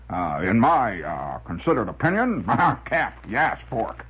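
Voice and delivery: lightly voiced pompous blowhard; a touch of bluster, with harrumphs between phrases; windbag character. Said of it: "he was a famous windbag".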